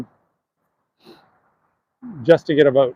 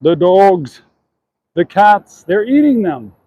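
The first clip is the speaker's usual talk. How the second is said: raised, emphatic quote of a candidate; imitated soundbite; 3 semitones higher, 4 dB louder, slower than usual. Walker repeating a debate soundbite, mimicked emphatically. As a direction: mimic the out-of-the-blue debate outburst. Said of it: "Just the way he said it out of the blue".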